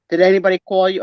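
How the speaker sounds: lightly attempted Italian accent; mother's Italian accent. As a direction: imitate mom's Italian-accented question. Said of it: "with a thick Italian".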